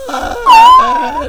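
high loud cry of shock. Real, not acted. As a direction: screech in disbelief. Mock surprise at age.

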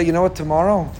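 voice of the evil inclination. Acted. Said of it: "the Yetzer Hara could say".

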